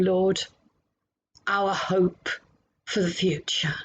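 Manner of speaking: reverent prayer, dying away to a whisper at the end; prayer fading to a whisper. Acted. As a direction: pray gently, let the last words fall to a hush.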